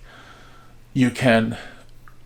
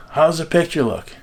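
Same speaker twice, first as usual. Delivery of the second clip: mild mock yell, pitched up; retold yell; 5 semitones higher than usual. Mother relays father's question into the house, mild mock yell. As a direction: imitate mother calling into the house. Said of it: "My mother would yell in the house".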